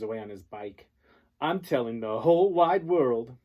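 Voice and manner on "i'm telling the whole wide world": high, loud taunting shout; shout back. Acted. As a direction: yell it back while riding off. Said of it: "he shouts back over his shoulder".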